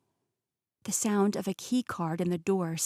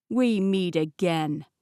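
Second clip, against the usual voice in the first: slow, louder sneering greeting; evil grin; 4 dB louder, slower than usual. Acted. Peter taunting the girl he once fought, grinning evilly. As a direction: savour it like a cruel joke. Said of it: "he said with an evil grin".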